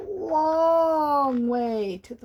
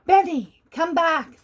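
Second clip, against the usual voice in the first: louder, higher call across the branches; 4 semitones higher, 5 dB louder than usual. Acted. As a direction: call him back firmly. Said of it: "the angel called".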